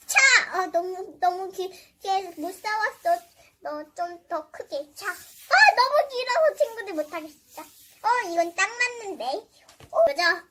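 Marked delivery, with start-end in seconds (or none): 5.1-7.6 laughing shout. Acted. Struggling with a long rope.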